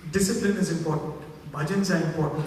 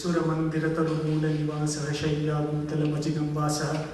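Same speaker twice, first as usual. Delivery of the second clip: verse recitation; 4 semitones lower than usual. Retold or imitated. Recites the Sanskrit verse he quotes.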